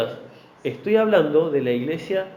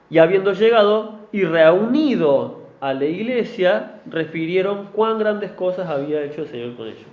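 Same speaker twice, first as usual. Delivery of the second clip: scripture reading. Acted. Reading Acts.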